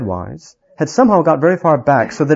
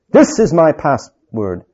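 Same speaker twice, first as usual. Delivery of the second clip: defiant king; 2 semitones higher, 4 dB louder, slower than usual. Acted. King draws his sword.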